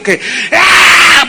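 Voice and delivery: sudden anguished cry of grief; a short wailing shout. Shown as a demonstration. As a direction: cry out like someone sobbing aloud. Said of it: "has llorado alguna vez gritando".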